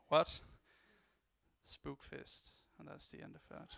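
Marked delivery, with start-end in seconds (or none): 0.1-0.4 shocked shout. Acted. Surprised comic character. 1.6-2.5 hissed attack name. Acted. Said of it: "I'm gonna dub it for you".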